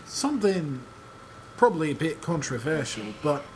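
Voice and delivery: put-on British accent. Shown as a demonstration. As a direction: play it like an amateur Brit. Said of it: "play the rest of the game like this".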